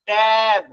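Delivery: "ট্যাব" as one held syllable; blended word. Shown as a demonstration. Teacher finishing the decoding, blended "ট্যাব". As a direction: join the sounds smoothly into "ট্যাব". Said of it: "যদি সে sound করে পড়ে".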